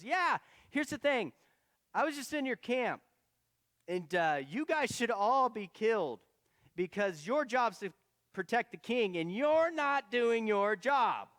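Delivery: loud, high, slow shouted rebuke; calling scold. Acted. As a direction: shout the charge across the camp. David scolds Abner from afar.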